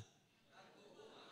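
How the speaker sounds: a slow hushed whisper of "Nagbubunga". Shown as a demonstration. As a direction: whisper "Nagbubunga" slowly with no voice at all. Preacher repeats key word for emphasis.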